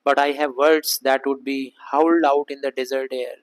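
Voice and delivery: slow, deliberate Shakespeare recital; slow verse reading. Acted. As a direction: read the line slowly, word by word. Reads Shakespeare verse slowly.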